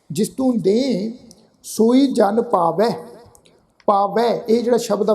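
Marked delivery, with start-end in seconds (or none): 0.1-2.9 ਦੇ said nasalised, slowly; slowly, with a nasal ਦੇ. Shown as a demonstration. Teacher demonstrates the verse to students, with a nasal ਦੇ. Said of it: "ਨਾਸਕ ਉਚਾਰਨ ਕਰਾਂਗੇ ਦੇ".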